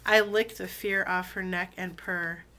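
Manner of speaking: deliberate, relishing poetry recital; spoken-word love poem, firmly phrased; poem reading. Acted. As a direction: savor each phrase, pausing between lines. Reads a poem aloud.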